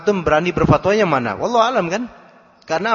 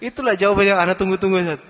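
pleased questioner; 3 semitones higher, faster than usual. Retold or imitated. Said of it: "Beneran ngomongnya kayak gitu".

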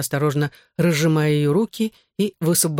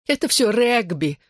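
high, slowed sob of a weeping mother; sobbing; 6 semitones higher than usual. Acted. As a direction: choke it out through tears. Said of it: "всхлипывала она".

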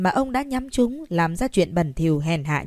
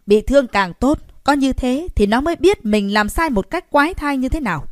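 put-on loud, furious old man, higher pitched; angry grandfather; 6 semitones higher, 6 dB louder than usual. A narrator's reading. Old grandfather scolding his grandson, angry shout. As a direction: bellow it at the grandson in rage. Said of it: "tức tối bảo".

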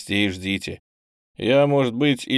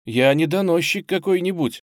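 higher, hot-tempered protest; indignant exclamation; 7 semitones higher, 3 dB louder than usual. A narrator's reading. Boy protests indignantly that he is no informer. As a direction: fling it back, offended. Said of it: "негодующе воскликнул он".

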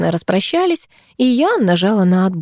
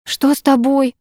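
gasped; 7 semitones higher than usual. Acted. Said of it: "ахнула я".

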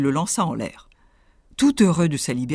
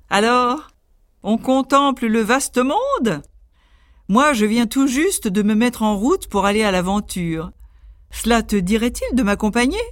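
higher, friendly boastful tailor voice; cheeky little tailor; 5 semitones higher than usual. Acted. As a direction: play the cocky little tailor.

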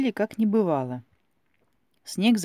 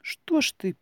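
pain and timidity; 9 semitones higher than usual. A narrator's reading. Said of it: "голосом, в котором изображалась и боль, и досада, и робость".

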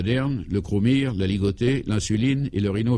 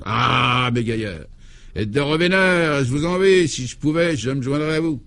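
put-on wistful old priest; 4 semitones higher than usual. Clovis envies the reporters.

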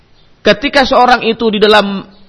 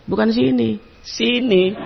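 laughing quote; 4 semitones higher, 7 dB quieter than usual. Retold or imitated. Voicing the masseur's instruction.

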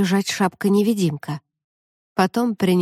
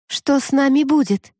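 anxious question; 6 semitones higher than usual. A narrator's reading. Frightened girl asks raven.

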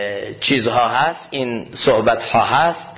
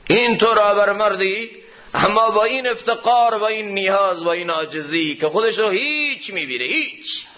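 fervent preaching; 7 semitones higher than usual. Acted. Preacher urges humility at the sermon's climax, high then hushed. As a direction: swell high then let it fall away.

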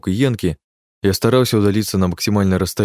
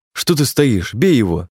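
impatient shout; 4 semitones higher, slower than usual. A narrator's reading. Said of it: "Не выдержал я".

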